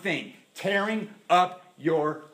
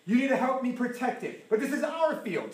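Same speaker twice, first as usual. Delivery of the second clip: bride's prayer; 8 semitones higher, 3 dB louder than usual. Retold or imitated. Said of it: "what the bride said".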